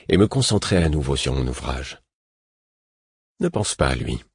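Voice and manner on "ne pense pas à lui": low, soft, coaxing suggestion; insinuating tone. A narrator's reading. Narrator steering the man's thoughts, insinuating and soft. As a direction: steer his mind away gently. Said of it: "fis-je d'un ton insinuant".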